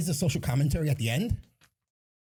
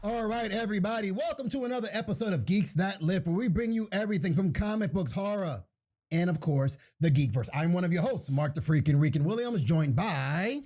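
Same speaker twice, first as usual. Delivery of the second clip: upbeat announcer-style welcome, slightly raised pitch; podcast host intro; 4 semitones higher than usual. Acted. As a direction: open the show like a host.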